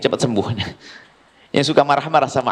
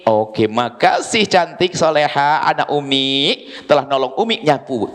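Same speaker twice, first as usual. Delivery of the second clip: tender praise; 3 semitones lower, slower than usual. Shown as a demonstration. Mother thanking daughter for sweeping, tender. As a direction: praise her gently. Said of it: "Kenapa Anda tidak berkata begini".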